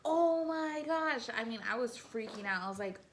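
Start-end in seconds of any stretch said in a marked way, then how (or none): 0.0-1.3 shocked gasp. Retold or imitated. Retold shock at pills.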